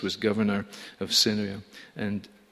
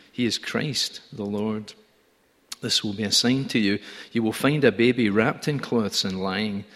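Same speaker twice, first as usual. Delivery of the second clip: louder, ringing reading of the shepherds passage; scripture reading; 3 dB louder than usual. Acted. Preacher reading the nativity to the congregation, ringing and full. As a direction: proclaim the verses to the whole church.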